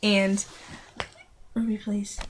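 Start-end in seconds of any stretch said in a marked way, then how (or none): 1.5-2.2 whispered plea. Real, not acted. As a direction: whisper her name, pleading. Hushing her little sister.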